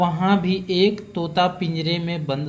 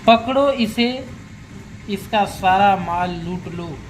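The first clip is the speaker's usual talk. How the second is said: loud. Retold or imitated. Robber's parrot shouting at the horseman, loud mock yell. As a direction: bark it out as a rough parrot's alarm. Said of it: "ज़ोर-ज़ोर से".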